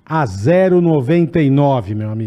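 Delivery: slow, drawn-out promo pitch; ad read. Acted. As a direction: sell the offer, stretching the key phrases. Co-host delivers sponsor offer.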